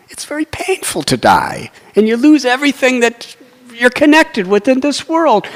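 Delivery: high-pitched, insistent objection; earnest protest. Retold or imitated. Dadichi objecting to demigods who want him dead, protesting. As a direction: argue it out, pitch held high.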